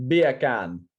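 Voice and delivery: light mock-Jamaican "Beer can"; demonstrating a Jamaican accent on two words; "Beer can" in a lightly imitated Jamaican accent. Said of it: "Say beer can in a Jamaican accent".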